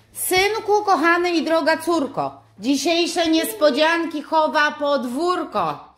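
slow, loud sing-song rhyme reading. Acted. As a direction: read the riddle like a children's poem. Reading the advent riddle rhyme.

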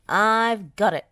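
loud, eager outburst; roaring. A narrator's reading. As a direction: roar the bright idea. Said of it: "roared Muck".

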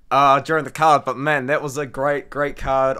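raspy, worn-out voice after screaming; hoarse voice. Real, not acted. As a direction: talk through a voice lost from yelling. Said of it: "I've lost my voice 'cause I was screaming".

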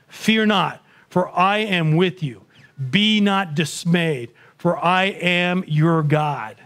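slow, solemn reading of Scripture. Acted. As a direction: lees langzaam en plechtig voor. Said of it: "Holy Spirit led him to Isaiah".

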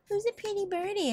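high squeaky parrot imitation; parrot talk. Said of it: "She'll be like".

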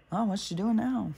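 a light mock of a nosy neighbor; curious, gossipy peek out the window. Imitating neighbors watching her from the window, lightly mocking.

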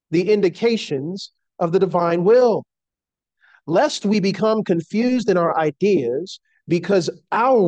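measured, emphatic devotional reading; formal quotation reading. Acted. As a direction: read it out solemnly, lifting the key words. Reads a quotation aloud.

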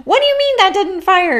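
high, loud, laughing mock outrage; gamer streamer quote. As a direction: imitate a streamer's disbelief. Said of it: "he always says".

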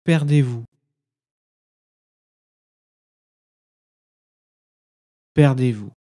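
measured poem recitation with long silences between phrases; meditative poem reading. Acted. Guide reads listeners a Sufi poem as practice, meditative recitation. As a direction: recite each line as an instruction, then leave silence.

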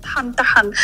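angry. Real, not acted. Guest losing her temper.

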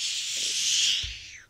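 slow unvoiced sorrowful shh; sad sled noise. Shown as a demonstration. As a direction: let the shush sag like a sad sigh. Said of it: "we could make a sad noise".

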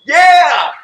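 a high, loud, eager yeah; eager yes. Retold or imitated. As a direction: jump at the offer. Eunuch eager answer.

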